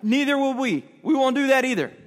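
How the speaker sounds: high-pitched, insistent chiming in; eager agreement. Acted. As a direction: pile on in emphatic agreement. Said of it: "all the other disciples agree".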